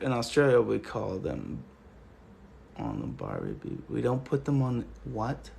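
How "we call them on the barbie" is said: mock cliche. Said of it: "we also do not call it shrimp".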